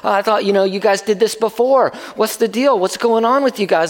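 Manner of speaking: imagined hecklers picking on someone; taunting. Acted. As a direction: needle them with a mild taunt. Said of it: "them kinda taunting them".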